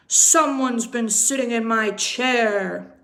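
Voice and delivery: loud indignant exclamation; papa bear exclaiming. Acted. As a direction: boom it out like an outraged big bear. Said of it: "exclaimed Papa Bear".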